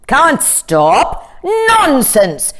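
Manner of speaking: high, a touch of fury; furiously. A narrator's reading. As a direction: scoff at it as an angry king. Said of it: "said the king furiously".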